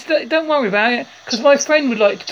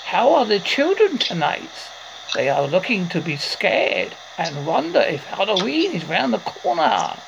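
lightly put-on spooky character, lilting and softer; alter ego voice; 4 semitones lower, 4 dB quieter than usual. Host voicing the masked friend to the guest, spooky character voice. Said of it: "I can do the voice".

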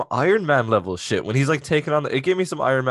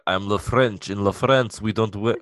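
put-on French villain accent that slips into Russian; bad French accent; 2 semitones lower than usual. Host imitates Batroc fighting Captain America, bad French accent. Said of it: "that was a Russian accent for a French villain".

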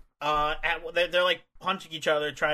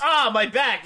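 loud, higher hammed-up yelp; mock pain cry; 5 semitones higher, 5 dB louder than usual. Gene Money gets his back raked, mock pain cry.

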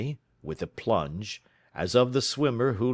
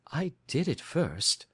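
put-on higher, slow young woman's voice; Mary Sutherland voice; 8 semitones higher than usual. A narrator's reading. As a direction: lift into Mary's earnest, simple voice.

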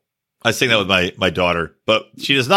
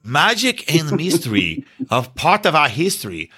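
solemn president address; 2 semitones higher than usual. Retold or imitated. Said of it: "He's like".

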